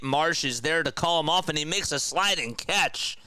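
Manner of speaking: mock baseball play-by-play call; casual live baseball commentary. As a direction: call the game like a radio announcer. Play-by-play of the game.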